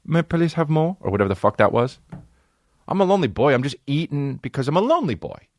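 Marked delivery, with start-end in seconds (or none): 0.0-1.0 lightly voiced begging orphan, pitched up; Oliver Twist. Lonely snacker mimicking an orphan asking for food, pleading. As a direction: plead a little higher, as a hungry child. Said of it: "like I'm fucking Oliver Twist asking".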